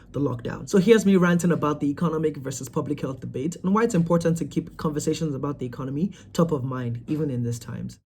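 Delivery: measured presenter's read, starting strong; podcast host narration. A narrator's reading. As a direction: clear scripted link read. Scripted host narration between chat clips.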